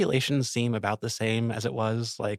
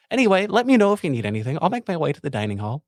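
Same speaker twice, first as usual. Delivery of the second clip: high, bright-pitched noble officer, pleased; lieutenant character voice; 6 semitones higher, 5 dB louder than usual. Acted. The lieutenant to the guard, high and gracious.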